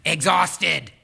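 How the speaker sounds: a loud, falling single word; exhausted. Acted. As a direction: drop the word heavily, like an alarm going off. Naming the first warning light.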